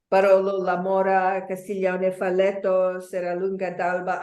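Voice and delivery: Italian place names in an Italian accent. Shown as a demonstration. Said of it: "I'm just practicing my Italian accent".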